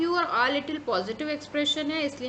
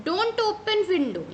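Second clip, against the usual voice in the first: slow dictation; 7 semitones higher, 4 dB louder, much slower than usual. Shown as a demonstration. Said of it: "यहाँ पे not आ गया है".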